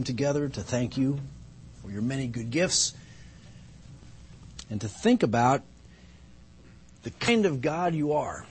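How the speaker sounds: reverent, measured prayer with pauses; public prayer. Real, not acted. Pastor praying to God before the congregation, reverent and measured. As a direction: pray reverently, letting each phrase settle.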